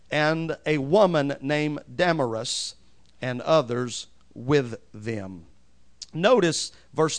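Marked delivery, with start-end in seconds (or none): 0.1-5.4 slow, emphatic Bible reading; measured pulpit reading with strong stresses; scripture reading. Acted. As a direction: read the verses out loud and deliberately, weighting key words. Reads scripture aloud to congregation.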